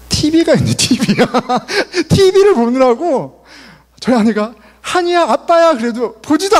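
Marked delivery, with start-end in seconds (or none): 0.1-3.4 laughing. Real, not acted. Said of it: "laughs at daughter and TV". 4.8-5.7 higher, calling his daughter. Retold or imitated. Father calling daughter on video.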